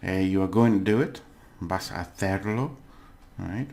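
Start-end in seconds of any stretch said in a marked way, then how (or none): 0.1-1.2 plain statement, "you are" before "going"; statement tune. Shown as a demonstration. Teacher models the positive sentence for learners, as a statement. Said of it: "these two positive ones". 1.6-2.8 "vas a hacerlo" said evenly as a statement; statement tune. Shown as a demonstration. Teacher gives learners the Spanish positive form, statement tune. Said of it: "these two positive ones".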